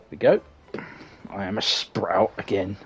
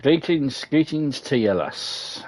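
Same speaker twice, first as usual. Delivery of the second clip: higher-pitched Scottish greeting, dropping at the end; Scottish accent; 6 semitones higher, slower than usual. Acted. Innkeeper greeting a newcomer lass, Scottish accent. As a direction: greet them in a put-on Scottish voice. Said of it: "Why did I give him a Scottish accent?".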